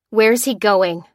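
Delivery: loud, forceful question; demanding cry. Acted. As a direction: demand an answer from the captive. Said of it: "cried Lucy".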